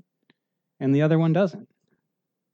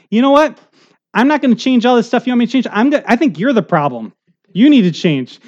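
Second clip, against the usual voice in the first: higher, fast, blunt mock politician; a lightly voiced politician, pitched up and quick; mock candidate; 5 semitones higher, 4 dB louder than usual. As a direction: play a candidate who blames the voters. Imagined candidate's honest speech.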